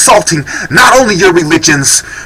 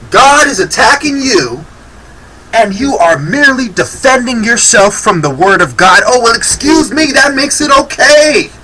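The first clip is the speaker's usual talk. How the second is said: mocking, pitched up with a laugh; sarcastic; 3 semitones higher than usual. Real, not acted. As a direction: sneer it like you're pretending to agree. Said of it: "Of course I'm being sarcastic".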